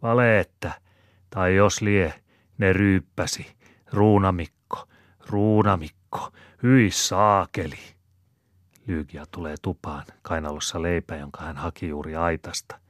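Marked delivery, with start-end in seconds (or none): 0.0-7.8 higher, louder indignant outburst; exclaiming. Acted. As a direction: shout it out in disgusted disbelief. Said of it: "Maunon Pertta huudahtaa".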